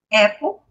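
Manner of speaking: Apple said as English "AP-pol", open a; English pronunciation. Shown as a demonstration. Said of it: "olha só, a letra A".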